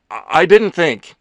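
high, loud, halting excuse; flustered stammer. Acted. Ethan continuing his apology to Leo, flustered. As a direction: stumble over the first word.

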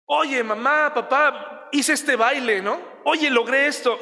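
put-on excited child. Child excitedly telling parents.

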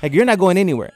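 put-on high, scolding girlfriend voice; loud raspy voice. Girlfriend forbidding the trip in a restaurant, high and scolding. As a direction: forbid it in front of the whole room. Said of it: "she does this really loud, raspy voice".

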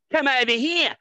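loud, high angry call; angry summons. Retold or imitated. Footballer calling the heckler over, loud and angry. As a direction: bark the order across the airport.

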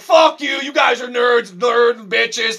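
high, loud hammed-up shouting; mock gamer rant. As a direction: yell it like an angry gamer.

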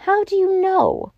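high-pitched, incredulous query; astonished question. A narrator's reading. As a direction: ask in staring disbelief. Professor questions Bull's startling claim.

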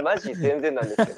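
laughing mock gyaru, rising end; hammed-up gyaru line through a laugh; japanese gyaru slang. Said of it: "ギャル語".

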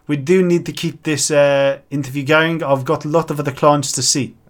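put-on New Zealand-South African mix; mixed New Zealand-South African accent. Bank adviser interrupting a couple, mixed New Zealand-South African accent. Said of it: "a mix of New Zealand and South African".

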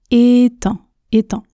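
"éteint" with a linking t sounded; liaison. Shown as a demonstration. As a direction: link è to un through t in "éteint". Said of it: "je fais la liaison". (« éteint » avec la liaison en t)

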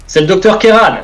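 loud high call. Acted. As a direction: shout your name to get through. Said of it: "je lui crie plusieurs fois".

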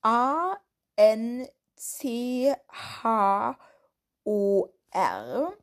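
slow letter by letter; spelling out. Shown as a demonstration. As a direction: spell each letter out slowly. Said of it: "Ich buchstabiere das jetzt hier mal".

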